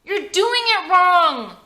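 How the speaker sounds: put-on high, loud kid voice; an eager ten-year-old; young boy. A narrator's reading. Jordy asking his dad for help with the mask, high eager kid voice.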